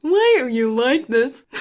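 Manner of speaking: lightly mimicked friend's complaint; Dakota. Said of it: "That's my Dakota impression".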